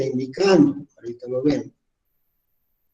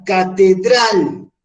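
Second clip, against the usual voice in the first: catedral slow and high, DRAL held; stress on last syllable; 4 semitones higher, 3 dB louder, much slower than usual. Shown as a demonstration. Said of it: "Fuerza de entonación".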